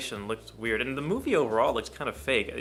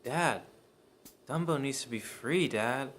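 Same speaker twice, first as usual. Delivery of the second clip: imitating daughter character; 3 semitones higher, 3 dB quieter than usual. Reviewer mocking the daughter's bad acting, halting imitation. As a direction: mimic her stilted lines with pauses. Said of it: "For the whole movie, she just talks like this".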